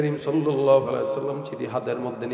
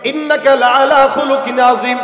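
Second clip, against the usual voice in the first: spoken briskly in a raised preaching voice; declaimed verse; 11 semitones higher, 10 dB louder than usual. Real, not acted. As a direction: proclaim the verse without chanting. Same verse declaimed while preaching. (জোর গলায় আয়াত ঘোষণা)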